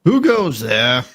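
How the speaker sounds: muffled through a gate. Acted. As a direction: call it out as if behind a door. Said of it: "you hear a muffled voice on the other side".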